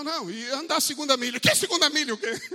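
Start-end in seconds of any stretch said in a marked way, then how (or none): 1.4-2.4 mock scoffing retort. Acting a scoffing member.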